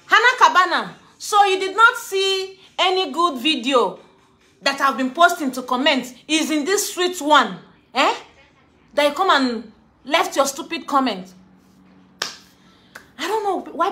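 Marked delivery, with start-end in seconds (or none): 0.1-11.3 calling out. Real, not acted. Calling out a commenter.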